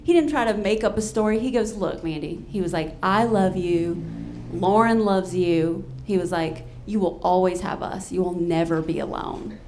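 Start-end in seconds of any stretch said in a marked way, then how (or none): 1.7-9.6 lower, unhurried retold comfort; imitating a friend's tender promise; sincere reassurance. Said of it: "He's such a lovely human".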